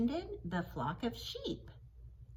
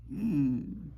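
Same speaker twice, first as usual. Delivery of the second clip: low, playful grumpy hum; make-believe sulky hmm for children; pretend upset hmm; 5 semitones lower, 3 dB louder than usual. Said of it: "Can you make an upset face?".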